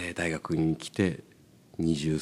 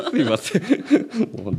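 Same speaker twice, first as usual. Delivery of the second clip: apologizing through real laughter, high and loud; 笑いながら謝る; 11 semitones higher, 4 dB louder, slower than usual. Real, not acted. 照れて笑いながら謝る. (笑いまじりに謝って)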